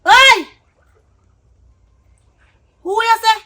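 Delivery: high, loud shocked outburst; outraged disbelief. Acted. Partner reacting to a confession, shocked and loud. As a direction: call out sharply in high-pitched shock.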